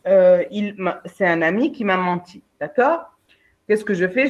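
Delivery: ordinary talk, nothing marked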